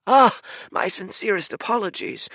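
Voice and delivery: bow with your voice, polite and proper; courtly old man. Acted. Old Fate politely introducing himself to the giant, humble courtly voice. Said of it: "cried Fate".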